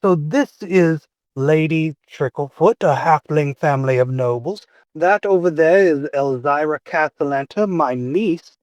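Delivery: familiar character voice. Acted. Uncle introducing his niece to a professor, lightly acted character voice. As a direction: make polite introductions as a character. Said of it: "hear a familiar voice saying".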